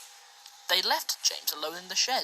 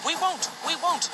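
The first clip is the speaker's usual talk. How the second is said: high, louder mock scream; screaming trucks; 10 semitones higher, 3 dB louder than usual. A narrator's reading. Trucks refusing James, a high mock scream. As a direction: screech it like stubborn trucks. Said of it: "screamed the trucks".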